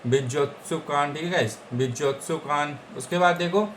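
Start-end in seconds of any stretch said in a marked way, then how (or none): 0.1-1.1 बिजोत्सुकान said slowly, each syllable clear; slow clear pronunciation. Shown as a demonstration. Teacher repeating the new word for students, slowly. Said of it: "उसको बोलेंगे बिजोत्सुकान". 1.7-2.8 बिजोत्सुकान said slowly, each syllable clear; slow clear pronunciation. Shown as a demonstration. Teacher repeating the new word for students, slowly. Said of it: "उसको बोलेंगे बिजोत्सुकान".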